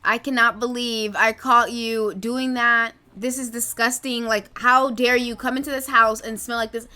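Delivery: loud, slowed-down mom rant; angry mother scolding. Acted. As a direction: chew the kid out like a furious mother. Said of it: "Susan is about to curse her out".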